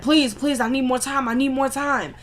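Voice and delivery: retold begging. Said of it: "he's begging him".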